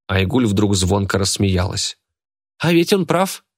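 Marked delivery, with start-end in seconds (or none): 2.6-3.4 bright exclaim, pitched much higher; a gleeful, pitched-up exclaim. A narrator's reading. Girl gleefully agrees with the boy, exclaiming high. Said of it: "воскликнула она".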